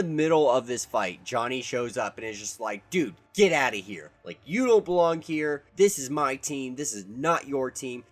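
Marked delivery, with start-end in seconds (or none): 2.9-8.0 louder, higher retold jealous snapping; mock angry yell of a jealous hothead; jealous outburst. Johnny picking a fight with Iceman mid-battle, mock angry yell.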